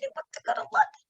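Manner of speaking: high whispered longing; dreamy whispered want; breathless whisper. Retold or imitated. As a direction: breathe it like a secret wish. Breathless wish.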